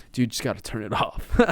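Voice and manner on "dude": sigh. Real, not acted. Sigh before calming himself.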